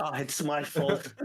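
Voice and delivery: slow, teasing bedroom voice; mock seductive. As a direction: purr it out slowly. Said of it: "Talk, talk dirty to me".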